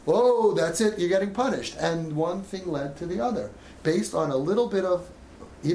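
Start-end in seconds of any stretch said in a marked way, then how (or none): 0.1-1.7 louder, higher mock-angry punishment; angry parent. Parent punishing the defiant son, in a louder mock-angry voice. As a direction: lay down the punishment, hammed-up anger.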